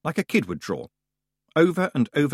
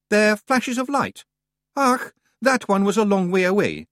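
brisk, higher Scots brogue for the wee man; Scottish Feegle voice; 10 semitones higher, 4 dB louder than usual. A narrator's reading. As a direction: play the cocky little Scot. Rob Anybody voiced in Scots.

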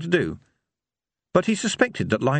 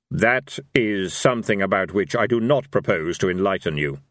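Death voice; 2 semitones lower than usual. Acted.

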